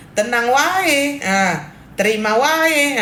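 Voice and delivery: imitating Good Day. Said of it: "kayak, kayak Good Day".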